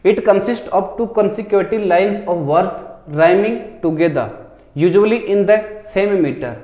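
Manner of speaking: reading the question out word by word; slow question reading. Shown as a demonstration. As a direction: dictate it slowly to the class. Reads exam question aloud. (धीरे-धीरे प्रश्न पढ़ना)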